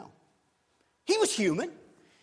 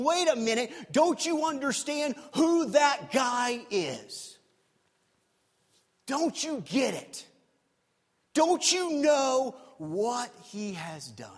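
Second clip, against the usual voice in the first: indignant protest; 4 semitones higher, slower than usual. Retold or imitated. Brother's indignant protest acted out.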